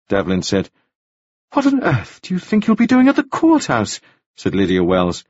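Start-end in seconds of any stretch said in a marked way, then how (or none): 1.5-4.0 high-pitched, indignant challenge; incredulous outrage. Acted. Widow challenges Anna's courthouse plan, incredulous. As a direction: demand it in affronted disbelief.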